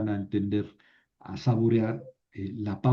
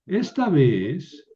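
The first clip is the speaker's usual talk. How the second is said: slow joined reading; 3 semitones higher, 4 dB louder, much slower than usual. Shown as a demonstration. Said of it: "las pronuncio juntas".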